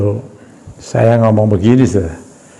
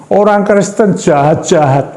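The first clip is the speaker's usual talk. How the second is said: slow, high shouted accusation; mock the husband yelling at the pastor; retold shout; 8 semitones higher, slower than usual. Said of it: "Dia teriak keras sekali".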